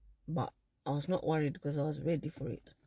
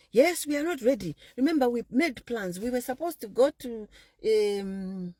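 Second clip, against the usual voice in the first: put-on insistent boyfriend; 4 semitones higher than usual. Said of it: "don't speak for me".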